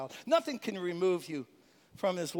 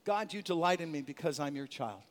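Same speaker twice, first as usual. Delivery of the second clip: quiet affirmation; 6 semitones lower, 4 dB quieter than usual. Shown as a demonstration. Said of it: "How do we strengthen ourselves".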